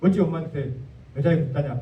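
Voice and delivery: a hint of a grumbling old man; Jeolla scolding. A critic griping about Jesus calling his mother "woman", in mock Jeolla dialect. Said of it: "짜식이 말이여".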